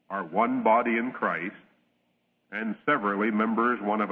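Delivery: measured, solemn reading of Scripture. Acted. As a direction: read the verses steadily from the pulpit. Reads scripture aloud.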